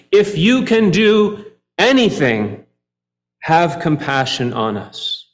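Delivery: slow, pleading cry of a desperate father; father cries out. Acted. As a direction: beg for mercy, drawn out. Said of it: "the father cries out".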